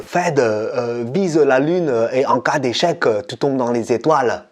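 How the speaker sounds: lightly put-on Asian accent for his dad; father's Asian accent, mildly imitated; a hint of an Asian accent, quoting dad; Asian accent imitation. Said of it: "il le disait avec son accent".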